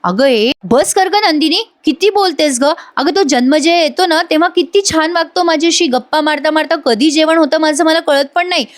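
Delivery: Arya. Retold or imitated. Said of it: "Arya जोरात ओरडते नंदिनीवर". (वसकून बोलल्याचा हलका अभिनय, चढा सूर)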